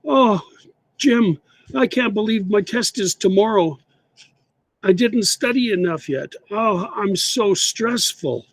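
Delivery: a touch of student panic; stressed student. Shown as a demonstration. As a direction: act out a student panicking before a test. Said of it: "I'm gonna say it again".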